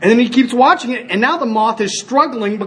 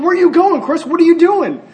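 retold call, much higher pitch; 8 semitones higher, 3 dB louder than usual. Friends call to the man heading upstream, imitated calling out. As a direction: imitate puzzled friends calling after someone.

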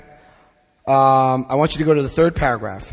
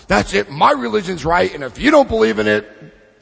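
raised, lightly hammed-up insistence; mock zealot; 4 semitones higher than usual. Mocking believer insists on their religion, mock zealotry. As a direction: imitate a dogmatic believer.

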